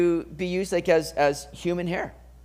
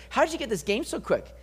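higher-pitched, incredulous questioning; mock suspicious; 5 semitones higher than usual. Preacher voicing Isaac doubting his son's quick hunt, mock suspicious. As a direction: question it like a father who smells a trick. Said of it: "Isaac's a little suspicious of".

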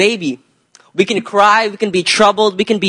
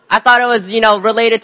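laughing; 3 semitones higher, faster than usual. Real, not acted. Laughs at own mistake.

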